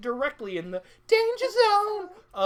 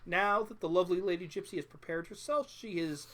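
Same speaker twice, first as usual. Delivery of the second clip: showman countdown. Acted. Host counts down trap.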